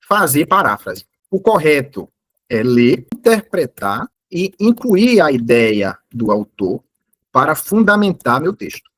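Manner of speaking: slow, deliberate prompt dictation. Shown as a demonstration. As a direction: dictate each phrase slowly, as if typing it. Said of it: "eu falo aqui, olha". (ditado lento e pausado)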